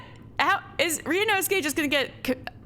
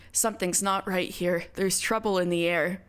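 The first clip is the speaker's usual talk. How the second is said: lower, hushed serious tone for "Something's not right here."; 6 semitones lower than usual. Shown as a demonstration. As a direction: pull yourself together and say it gravely. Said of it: "I should start sounding serious".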